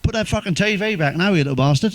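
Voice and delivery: mock shout out of a window, no real volume; retold shout. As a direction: call out crossly without really yelling. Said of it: "open window, I shouted".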